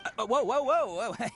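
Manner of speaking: quick rising whoa whoa whoa; alarmed stopping. Acted. Stopping Paimon from doing something rash, alarmed. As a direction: hold on, don't do it.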